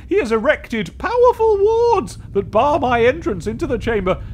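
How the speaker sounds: ghostly warning. Acted. Ghost explains wards.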